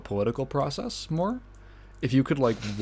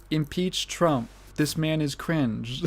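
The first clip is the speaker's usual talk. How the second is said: bad robot reader; 3 semitones higher, 4 dB quieter, slower than usual. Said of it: "text-to-speech voice comes out".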